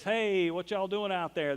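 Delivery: calling out across the water, slow; man calling from shore. Retold or imitated. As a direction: hail them from a hundred yards. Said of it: "And the man says".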